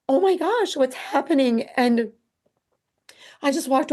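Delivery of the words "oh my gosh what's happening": panicked. Retold or imitated. Mother's shock as son hits himself.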